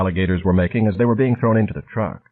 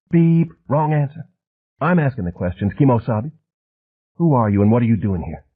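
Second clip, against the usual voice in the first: mock game show buzzer; 4 semitones higher than usual. A narrator's reading. Harvard man mocking Flint's answer, game show taunt. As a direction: toy with him like a quiz host. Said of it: "jabbering as if he might be flying on speed".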